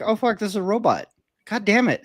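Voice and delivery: high-pitched exasperated mock dismay; retold dismayed realization. Man discovering the caller is a robot, retold dismay. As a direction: replay the frustrated moment it dawned on you. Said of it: "And then I realized".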